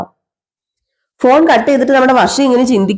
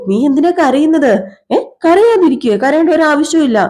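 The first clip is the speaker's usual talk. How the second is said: lightly acted, higher-pitched consoling; higher voice, mildly coaxing; 6 semitones higher than usual. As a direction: raise the pitch to hush someone's tears. Acted consoling of crying student.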